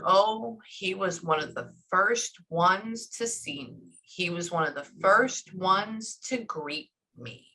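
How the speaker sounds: slow, lingering recollection; unhurried, drawn-out reminiscing; imitated slow telling. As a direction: stretch out each phrase as she remembers. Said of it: "That's how she says it".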